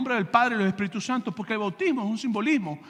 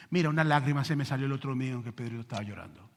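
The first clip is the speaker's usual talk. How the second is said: soft, lower gossiping voice; gossipy churchgoer; 8 semitones lower, 5 dB quieter than usual. Retold or imitated. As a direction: whisper it like a fawning church member. (chismoso de iglesia, voz baja y burlona)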